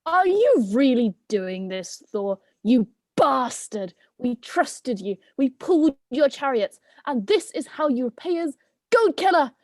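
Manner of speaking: rising into a high cursing rage; betrayed goat's curse. Acted. Goat cursing Thor for killing them, building to high fury. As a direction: curse him with everything you have.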